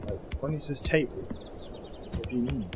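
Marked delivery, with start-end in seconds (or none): 1.2-2.7 slow whisper. Real, not acted. Puzzled at the game's task.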